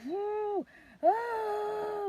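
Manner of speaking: high, drawn-out whoo and ah; restrained labor moan. Retold or imitated. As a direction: moan through it without screaming. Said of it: "still not hollering my lungs out".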